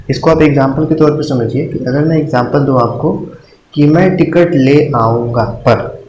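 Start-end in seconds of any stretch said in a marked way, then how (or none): 3.9-6.0 slow, even read of the whole example sentence. Shown as a demonstration. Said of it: "इससे आपने लोप चिन्ह का उपयोग किया". (धीमे से उदाहरण पढ़ना)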